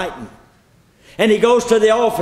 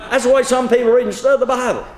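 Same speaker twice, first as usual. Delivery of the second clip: chuckling through the words; real laugh while talking, a bit faster; 6 semitones higher, faster than usual. Real, not acted. Preacher laughing after the Bible joke to the congregation, laughing.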